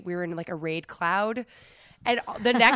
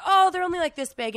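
breezy guide voice; 10 semitones higher, 5 dB louder than usual. Retold or imitated. Imitating the guide.

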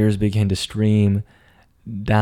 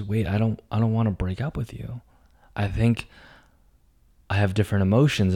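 much softer, hurried plea; soft pleading; 7 dB quieter, faster than usual. Retold or imitated. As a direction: plead quietly, almost under the breath. Girlfriend pleads the morning after.

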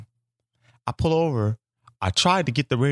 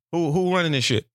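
bossy street demand; 6 semitones higher than usual. Retold or imitated.

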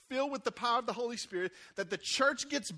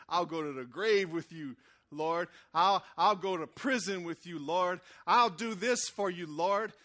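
louder, earnest loyal vow; eager Peter vowing; 3 semitones lower, 3 dB louder, slower than usual. Retold or imitated. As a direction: swear it like a zealous disciple. Peter vows loyalty to Jesus.

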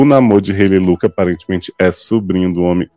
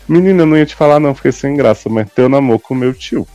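mock confession, fast and higher; hurried gossipy confession; 5 semitones higher than usual. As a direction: spill the awkward secret in a quick rush. Tânia confessa fofoca, encenada. (confissão de fofoca, apressada e mais aguda)

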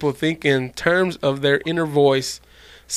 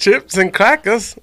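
slow, higher mock British; badly faked British, drawn out; attempted British accent; 5 semitones higher, 4 dB louder, slower than usual. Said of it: "your best British accent".

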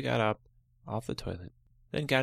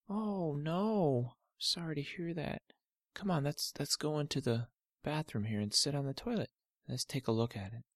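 lightly voiced, slightly higher soothing dad; dad calming his daughter; 6 semitones higher than usual. Father calming Olivia about her cut toe, gentle. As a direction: gently reassure the hurt girl.

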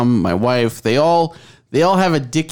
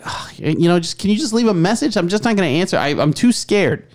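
higher, groaning plea; retold whiny excuse; exasperated pleading; 6 semitones higher than usual. Employee reluctant to answer unmarked calls, exasperated pleading.

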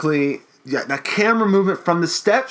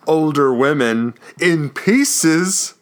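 horror host voice; slower than usual. Pretend. Hosting the Crypt Keeper outro.

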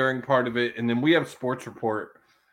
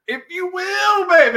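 seventies wrestling manager; 8 dB louder than usual. Retold or imitated. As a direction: ham it up like an old-school wrestling manager. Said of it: "his seventies wrestling manager impersonation".

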